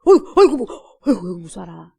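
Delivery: loud mock yelp of fright, then dropping off; mock frightened demon. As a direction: play the demon cringing in fake terror. Mocking demons' fear. (겁먹은 귀신 흉내)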